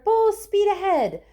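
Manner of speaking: loud, high, slow; shouted command. A narrator's reading. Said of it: "shouted Mister Wonka".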